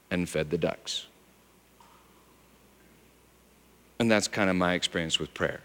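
low, soft, intimate telling; hushed sermon story; soft storytelling. Acted. Quiet storytelling.

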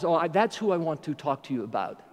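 low, soft, halting delivery as God; quiet and measured, pauses between phrases; grave divine instruction. Retold or imitated. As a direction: imitate God laying out a hard request, piece by piece. God gives Abraham the grave command.

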